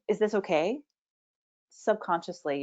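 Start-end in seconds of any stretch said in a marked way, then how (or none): 0.1-0.8 "okay" lifted as a question; tentative check, pitch rising on "okay"; asking for approval. Shown as a demonstration. Coach voicing the hidden plea for permission, rising on "okay". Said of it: "and you're asking".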